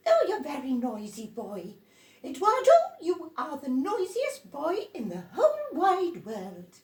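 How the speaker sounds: loud, high scolding adult voice; scolding grown-up. Acted. Adults scolding noisy Eduardo, loud high scold.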